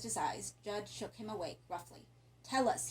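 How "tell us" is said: impatient demand. Acted. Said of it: "his show of compassion rapidly disappearing".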